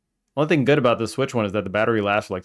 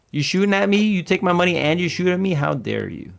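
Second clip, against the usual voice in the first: indignant outrage; 8 semitones higher, 5 dB louder than usual. Real, not acted. Indignant at being shot.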